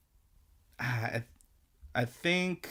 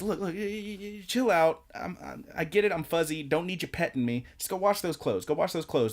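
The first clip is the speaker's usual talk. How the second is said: higher, lightly voiced annoyed creature; a lightly pitched-up, fed-up Nanachi; 6 semitones higher than usual. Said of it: "so Nanachi says".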